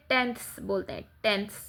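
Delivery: टेंथ्स said with a clear th ending, not टेंस; tenths, not tens. Shown as a demonstration. Teacher to pupils, correcting tens to tenths. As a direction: stress the th sound in टेंथ्स. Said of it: "अब इसको टेंस नहीं बोलते".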